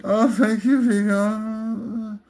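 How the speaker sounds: fawning thanks, hammed up; Janusz. Henchman thanking his master Vigo, creepy obsequious voice. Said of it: "he's always with that creepy, obsequious tone".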